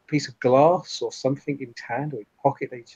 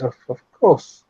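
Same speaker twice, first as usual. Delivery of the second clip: slow, halting, louder agreement; enthralled compliance; 5 dB louder, slower than usual. Acted. Addict obeys the order to kill, slowly compliant. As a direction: agree as if under a spell, drawn out.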